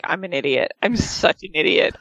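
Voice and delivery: self-reproach. Retold or imitated. Husband realizing his mistake, mock self-reproach. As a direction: mutter it down at yourself. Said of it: "he's just sitting there like".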